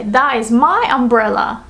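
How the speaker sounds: emphatic "my", teacher's example; stress on MY. Shown as a demonstration. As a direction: claim it with weight on "my". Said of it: "You'd say".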